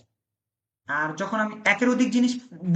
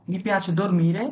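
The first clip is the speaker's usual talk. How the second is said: very slow model phrase; much slower than usual. Shown as a demonstration. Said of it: "teacher corrects with slow model".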